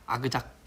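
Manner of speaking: soft mock crunch sound; quiet chewing noise; asmr crunch. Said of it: "에이에스엠알로".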